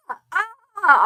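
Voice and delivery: real excited yell. Real, not acted. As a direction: yell to make up for missing it. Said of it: "I'm yelling at my".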